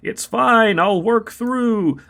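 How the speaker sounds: coughing through the words, high; hammed-up choking prophecy; overacted death scene. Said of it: "spice stuck in my throat".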